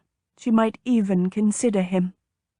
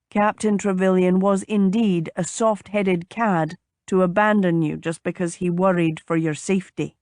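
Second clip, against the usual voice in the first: lightly voiced man, slightly lowered; agreeable gentleman suitor. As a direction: concede gallantly, as a gentleman.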